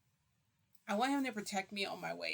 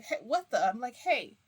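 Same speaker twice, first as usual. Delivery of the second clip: startled protest; 5 semitones higher, 8 dB louder than usual. Retold or imitated. Startled by him rubbing face.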